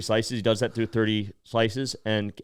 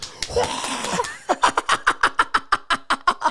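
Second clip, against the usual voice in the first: breathy mock crowd roar; voiceless imitation of a crowd cheering; whispered roar of an audience; imitated crowd reaction. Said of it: "everyone goes".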